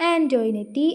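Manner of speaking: ആൻ്റോയിനറ്റി said as an-joy-net-ee; ആൻ്റോയിനറ്റി with a "joy" middle and vowel ending; name with final -i. Shown as a demonstration. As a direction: add an "ee" after the t in ആൻ്റോയിനറ്റി. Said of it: "പക്ഷെ അവളുടെ പേരെങ്ങനെയാണ്".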